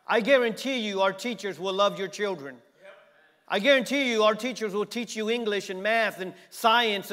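loud, rising sermon delivery; preaching. Real, not acted. Pastor urging parents from the pulpit, preaching loud. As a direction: preach it with building force.

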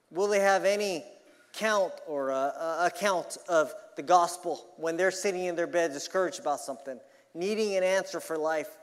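pressing, challenging pulpit questions; emphatic preaching. Acted. Preacher challenging congregation about their unsaved loved ones, emphatic preaching. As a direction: press each question on the listeners.

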